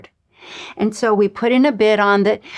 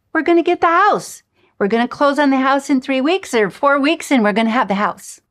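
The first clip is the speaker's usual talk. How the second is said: excited; 5 semitones higher than usual. Retold or imitated. Thrilled at getting house.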